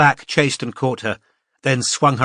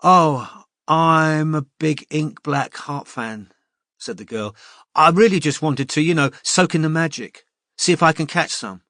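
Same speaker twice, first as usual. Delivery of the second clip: put-on eager young fan; 5 semitones higher than usual. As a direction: gush about being a fan. Eager fan girl introduces herself.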